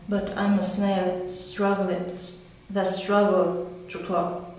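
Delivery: measured recital in short, paused phrases; poem reading. Acted. Woman reading her own poem about struggling, poem reading. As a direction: read it as verse, pausing after each line.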